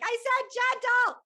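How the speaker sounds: high, loud retold yell. Yelling at ayahuasca mid-purge, high furious yell. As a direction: scream it at the spirit, outraged. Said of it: "I'm, like, yelling at ayahuasca".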